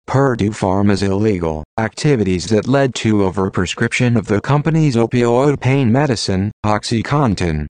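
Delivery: robotic text-to-speech voice. Real, not acted. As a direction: read it like a computer voice. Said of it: "using a computer-generated voice".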